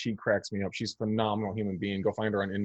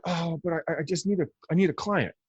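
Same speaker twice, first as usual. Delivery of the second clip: higher, pleading mock voice of a desperate agent; mock whiny agent; 7 semitones higher than usual. Mocking agents who only want any client, pleading. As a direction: whine it like a needy agent.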